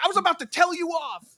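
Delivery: high, loud, quick blurt; retold indignant comeback. Kid answering the laughing maintenance worker, retold indignation. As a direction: fire it back fast and high.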